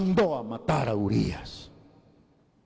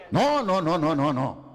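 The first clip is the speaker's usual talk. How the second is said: emphatic no; 5 semitones higher, 3 dB louder, slower than usual. Real, not acted. Emphatic refusal to congregation.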